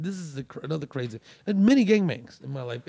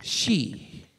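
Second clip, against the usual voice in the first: a bit higher, louder gruff uncle voice; calmed down; 5 semitones higher, 6 dB louder than usual. Retold or imitated. Uncle calming down at the scene, gruff and amused. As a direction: grumble then decide to join in. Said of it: "he kinda calms down".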